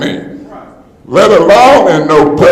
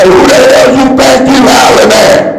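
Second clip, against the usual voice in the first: high angry challenge, pitched way up; retold angry yell; 9 semitones higher, 4 dB louder than usual. Council member recalling what he wanted to yell, indignant. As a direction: throw the words back at him like a slap. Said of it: "I wanted to say".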